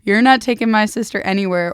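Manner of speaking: loud threatening snarl; a tough sister's loud threat; retold threat. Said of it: "threatens him".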